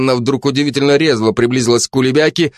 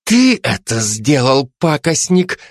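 sinister hiss; 4 semitones higher, slower than usual. Acted. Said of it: "зловеще зашипела Жанна".

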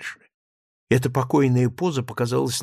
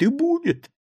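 pleading squeak. A narrator's reading. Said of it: "ласковым, дрожащим от волнения голосом".

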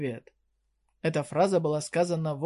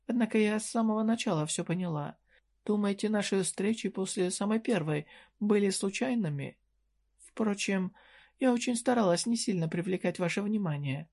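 lightly higher, sly and teasing; a coy shopkeeper needling a young customer; voiced merchant woman; 4 semitones higher than usual. Merchant reveals she knew. (слегка повышенный голос лукавой торговки)

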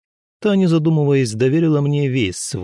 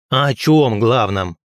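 louder, slow bark; 5 dB louder, much slower than usual. Acted. Young man barks at the old healer. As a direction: snap back at the old woman. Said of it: "рявкнул я".

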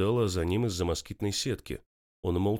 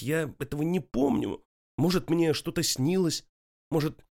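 desperate plea; 7 semitones higher, 4 dB louder than usual. A narrator's reading.

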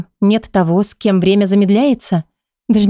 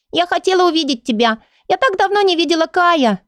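put-on high child voice near tears; tearful little girl; 10 semitones higher than usual. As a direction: play a little girl about to cry. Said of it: "Малышка зарыдала".

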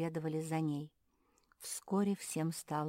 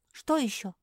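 tossed off; 8 semitones higher, 8 dB louder than usual. Acted. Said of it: "на ходу бросила Квакушка".

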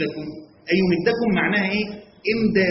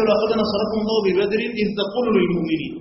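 Quran recitation; 3 semitones higher than usual. Acted. Reciting Quran verse in lesson.

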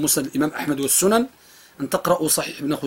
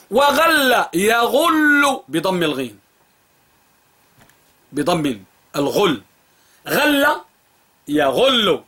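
slow dictation; 2 semitones higher, much slower than usual. Shown as a demonstration. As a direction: dictate each vowel slowly. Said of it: "dictating the vowel". (إملاء بطيء)

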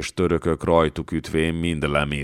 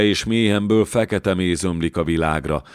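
raised, pleading voice of the apparition; urgent eerie plea; 3 semitones higher than usual. Acted. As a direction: plead as the floating head, pitched up a little. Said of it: "suttogta a fej". (sürgető, könyörgő hang)

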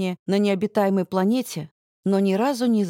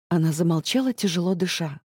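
ordinary delivery

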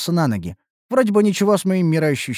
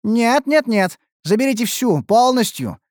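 higher, hurried insistence; rattling off quickly; 7 semitones higher than usual. A narrator's reading. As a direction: blurt it out in a rush. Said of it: "зачастил я". (торопливо, зачастив)

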